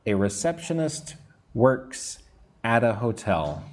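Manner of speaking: "at a" as one word after a pause; careful phrase-by-phrase model linking "at a"; linked AT A. Shown as a demonstration. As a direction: break after "works", then run "at a" together. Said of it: "put at and a together".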